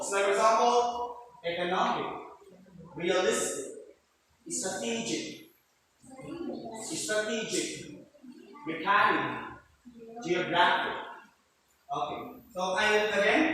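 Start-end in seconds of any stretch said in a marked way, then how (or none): 1.4-11.0 economic, realistic, strategic, mechanic, geographic, each stressed just before the final -ic; teacher's demo of stress before -ic; stress on second-last syllable. Shown as a demonstration. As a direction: model each word separately, leaning on NOM, LIS, TE, CHA, GRA. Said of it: "are usually stressed on the second syllable".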